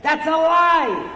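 loud, high furious yell at the radio; screaming at the radio. Retold or imitated. Pastor yells at the radio preacher, a furious shout. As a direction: shout it at the radio set, outraged. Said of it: "he screams at the radio set".

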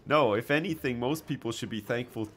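hammed-up pride, barely holding back laughter; laughing mock rant. Streamer joking to chat that everyone owes the UK, laughing.

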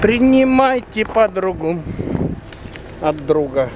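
high, slow announcing. Real, not acted. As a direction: present her like a delivery. Handing dog into car.

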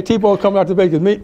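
ordinary talk, nothing marked

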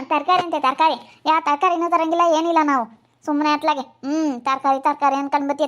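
cross, forceful brush-off; irritated snapping. Acted. Madam brushing off helper's question about vegetables, irritated. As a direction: dismiss the question with annoyance. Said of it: "ಯಾಕೆ ಹಂಗೆ ಸಿಟ್ಟು ಆಗ್ತೀರಾ".

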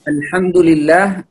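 الحمد لله with light, thin hamza and lam; correct light pronunciation. Shown as a demonstration. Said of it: "الكلمة الصحيحة يكون الهمزة واللام".

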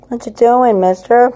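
high, loud sing-song pet talk; cooing at the cat. Real, not acted. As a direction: coo at the cat in a squeaky voice.

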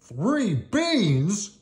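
high, disbelieving cartoon cry; shocked cry. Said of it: "cried Donald and Goofy".

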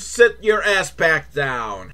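slow, drawn-out sit-down command; deflated mock order. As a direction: drop the cheer, order them down slowly. Mock cue for children to sit.

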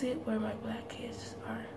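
speaking while applying face mask; fingers in front of mouth. Real, not acted. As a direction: hand partly covering lips. Seen 0: Fingers spreading nose mask partly cover mouth, on and off.

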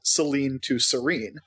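slowly compare "Selene" with "Serene", L turning to R; "Selene" then "Serene", said slowly to show L becoming R; Japanese-accent demonstration. Shown as a demonstration. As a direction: set "Selene" against "Serene", showing L becoming R. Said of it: "if you say it in a Japanese accent".

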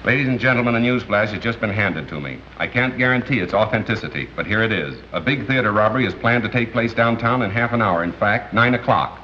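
formal, composed on-air announcement; radio announcer. Acted. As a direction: address the listeners as a polished newscaster. Announces news flash on radio.

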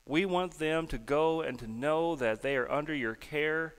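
earnest, steady public prayer. Real, not acted. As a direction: lead the congregation in prayer. Leads prayer over the kids.

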